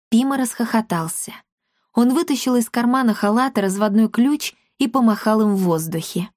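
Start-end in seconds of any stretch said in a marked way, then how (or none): none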